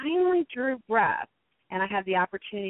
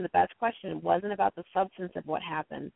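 ordinary talk

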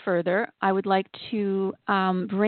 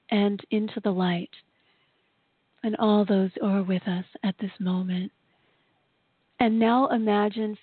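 guided meditation; 2 semitones higher than usual. Acted.

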